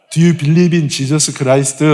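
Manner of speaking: "Do you believe in Jesus Christ?" very slow with Korean-accented vowels; Korean-accented English. Shown as a demonstration. Pastor recalls street evangelism in broken English, Korean-accented. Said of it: "발음 안 좋아요".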